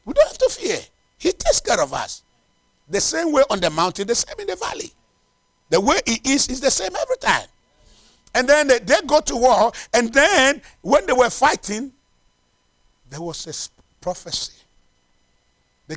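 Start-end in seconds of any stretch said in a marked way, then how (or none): 0.0-11.9 high-pitched, insistent preacher; impassioned preaching. Real, not acted. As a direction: press the point on the congregation. Preaches with force.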